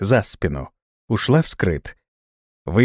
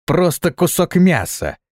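contemptuous; 6 semitones higher, slower than usual. A narrator's reading. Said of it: "возмутилась та".

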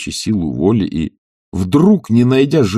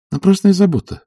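objecting; 11 semitones higher than usual. A narrator's reading. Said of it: "возразила она".

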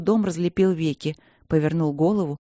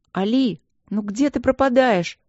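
higher, indignant phone greeting; mock-scolding, raised voice; indignant call; 6 semitones higher, 4 dB louder than usual. A narrator's reading. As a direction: call out in lively exasperation. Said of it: "негодующе кричала Пол в трубку".

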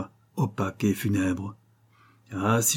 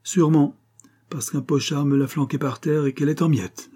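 voix plus haute, navrée; brocanteur plein de regret; 6 semitones higher than usual. Acted. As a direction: regretter sincèrement. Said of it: "d'une voix pleine de regret". (le brocanteur s'excuse, voix haute et navrée)

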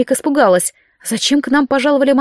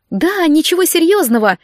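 carefree; 7 semitones higher than usual. A narrator's reading. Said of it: "как можно беспечнее отозвалась я".

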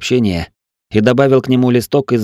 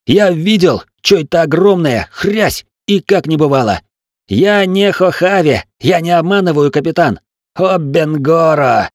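high, loud, breathless panicked cry; choking with panic; 7 semitones higher, 3 dB louder than usual. A narrator's reading. Gunner reports the monster to the captain, breathless panic. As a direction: gasp the words out in terror.

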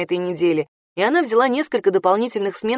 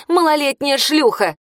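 выше, с сердитым нажимом; брось оскорбление в лицо; злой выкрик; 6 semitones higher than usual. A narrator's reading. Морган кричит на Бьянку. (Морган в ярости оскорбляет Бьянку, зло)

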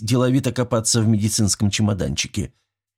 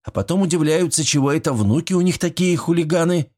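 grumbling; 9 semitones higher than usual. A narrator's reading. Nurse grumbling at the two neighbours, mildly. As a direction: mutter it with a reproachful look. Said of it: "проворчала Зинаида".

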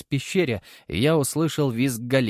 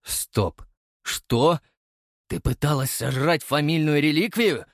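indignant; 4 semitones higher than usual. Acted. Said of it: "возмутился я".

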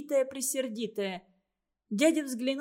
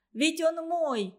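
higher, slow, possessive cry; angry cry; 6 semitones higher, 3 dB louder, slower than usual. A narrator's reading. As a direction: claim him, high and slow. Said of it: "закричала Катя".

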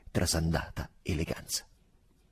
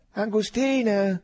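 slow, loud, high call of the name; near shout; 6 dB louder, slower than usual. A narrator's reading. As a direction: call him out, half a cry, tipsy. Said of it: "quasi con un grido". (quasi un grido, lento e forte)

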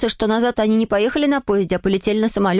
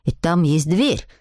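put-on much lower, matter-of-fact boy; sceptical schoolboy; 6 semitones lower than usual. A narrator's reading. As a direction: refute the boast in a low boy's voice. Voices Clotaire refuting the boast.

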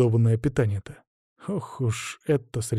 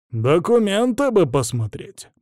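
slow, higher wary request; suspicious; 6 semitones higher, slower than usual. Acted. Soldier asking strangers for papers, suspicious. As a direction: drawl it out with suspicion. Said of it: "подозрительно заметил вояка".

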